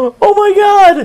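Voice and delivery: high, thrilled exclamation; excited. Acted. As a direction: gasp it out in delight. Mock amazement at news.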